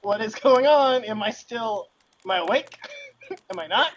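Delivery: panicked confusion. Retold or imitated. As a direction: replay the scared disbelief of waking up. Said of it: "So I was just sitting there like".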